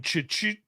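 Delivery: imitated fast double click. Shown as a demonstration. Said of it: "instead of going".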